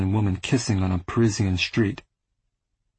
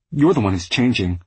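loud; 4 dB louder than usual. Acted. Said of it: "My voice was loud".

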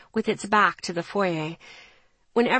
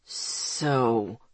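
shaking with anger; 10 semitones lower, 4 dB quieter than usual. A narrator's reading. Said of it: "his voice shaking with anger".

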